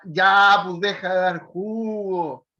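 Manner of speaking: loud sharp opening "Ya"; firm exclamation. Shown as a demonstration. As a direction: scold them firmly but lovingly. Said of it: "o te diría".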